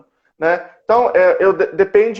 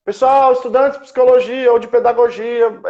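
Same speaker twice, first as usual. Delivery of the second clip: lightly acted announcement to students; mock recruitment call; 3 semitones higher than usual. Company calling psychology students for résumés, mock announcement. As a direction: call out a casual job notice.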